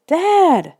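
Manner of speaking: high, loud call for Dad. A narrator's reading. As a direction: call into the storm for father. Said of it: "we called out".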